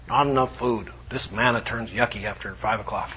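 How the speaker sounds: low, whiny grumble; lightly mocked complaining; grumbling Israelites. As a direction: complain like a grumpy crowd.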